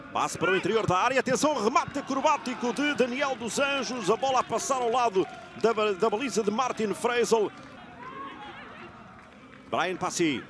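rising excitement, live goal call; fast dramatic football commentary. Real, not acted. (narração de futebol rápida e dramática)

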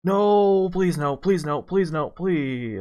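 pleading, high, slowing down; anguished denial. Real, not acted. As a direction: beg the ball not to miss. Watching shot about to fail.

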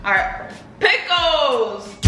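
drawn-out announcement. Acted. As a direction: stretch it out like a host. Announcing next food to viewers.

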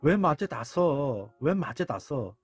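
drawn-out mock lament; acted grieving. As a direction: stretch the words out like a mourner. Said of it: "막 슬퍼하면서".

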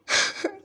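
loud voiceless sob; crying. Real, not acted. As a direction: let out a short, loud sob. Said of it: "I'm crying right now".

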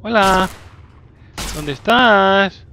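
drawn-out playful call. Real, not acted. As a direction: call out slowly to the hiding creature. Calling out to hidden monster. (llamada lenta y juguetona)

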